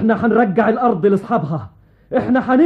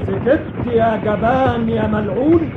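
roaring tyrant king; 2 semitones higher than usual. Acted. King challenges the enemy army.

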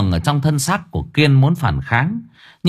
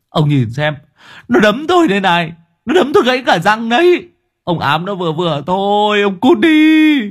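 louder, rising enraged shout; furious; 10 semitones higher, 4 dB louder than usual. Acted. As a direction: make him look at the damage. Kiên shows broken tooth, yells. (quát tức giận)

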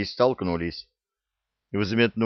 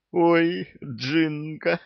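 much higher, gleeful cry of recognition; delighted; 9 semitones higher, much slower than usual. A narrator's reading. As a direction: greet her with sudden joy. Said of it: "обрадовался святой".

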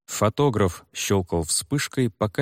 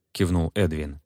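plain reading voice

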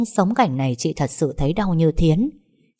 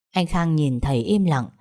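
ordinary delivery, nothing marked

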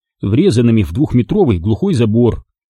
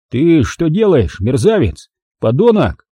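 indignant protest; 4 semitones higher than usual. Acted. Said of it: "Пытался опротестовать я".

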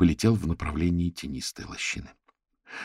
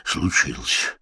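bear growl; much slower than usual. A narrator's reading. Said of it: "прорычал он".

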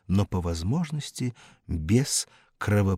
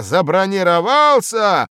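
high, loud bellowed word; loud raging repetition; furious roar; 11 semitones higher, 12 dB louder than usual. Acted. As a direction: roar it in outrage. Boss repeats in rage.

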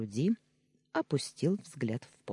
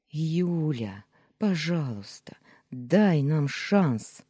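louder, very slow drawn-out begging; whining plea; 3 semitones higher, 5 dB louder, much slower than usual. Acted. Danya begging Yulia for a chance, slow whining plea. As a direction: plead with a whine. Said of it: "проскулил он".

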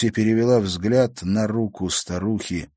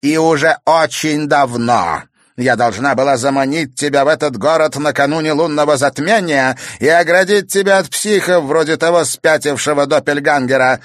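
much higher, louder triumphant crone; gloating witch; 8 semitones higher, 8 dB louder than usual. Acted. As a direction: gloat over your reward. Villain gloating monologue.

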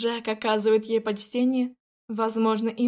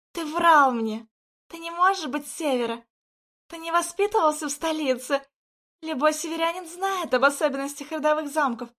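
raised, higher accusing voice; 5 semitones higher than usual. Acted. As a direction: hurl the accusation at him. Lauren accuses Jack.

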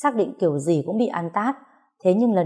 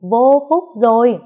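much louder, higher, slow wail; 6 semitones higher, 8 dB louder than usual. A narrator's reading. Mother-in-law wailing at Thiên, loud and slow. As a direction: wail it out in despair. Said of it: "Bà quát tôi".

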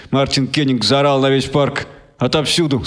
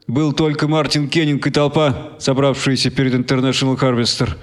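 ordinary delivery, nothing marked

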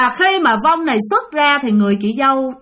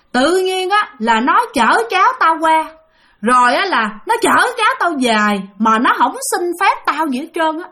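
higher, scolding rant from the possessed woman; retold ghost cursing; 4 semitones higher than usual. Possessed sister-in-law curses the brother, mock angry scolding. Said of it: "chửi qua anh hai luôn".

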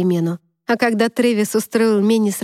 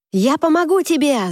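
high shouted call, higher; girl shouting; 7 semitones higher than usual. A narrator's reading. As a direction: call out from the crowd. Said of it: "закричала какая-то девчонка".

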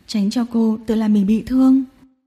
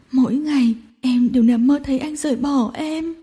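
crying openly. Acted. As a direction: blubber out her fears. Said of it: "khóc oa oa". (khóc oa oa kể lể)

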